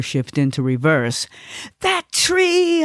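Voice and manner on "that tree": understated panicked cry; mild scream. A narrator's reading. Passenger warns driver of a tree, mild high scream. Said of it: "I screamed".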